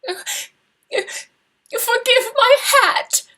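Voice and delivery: high, loud voice breaking on a sob; sobbing girl. Acted. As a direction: force the words out through a childish sob. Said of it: "Laura gave a loud, childish sob".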